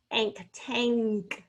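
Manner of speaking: "ank, tank" with the ng lingered on before the k; "ank, tank" with a funny little G sound before K; drawn-out NG sound. Shown as a demonstration. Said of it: "make this funny little G sound".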